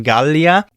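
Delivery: GALLIA opening on a hard g. Shown as a demonstration. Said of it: "G in Latin is also always hard".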